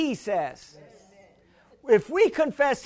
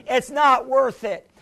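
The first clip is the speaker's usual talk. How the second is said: preaching at full force; 2 semitones higher than usual. Acted. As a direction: thunder it from the pulpit. Preaching scripture to congregation.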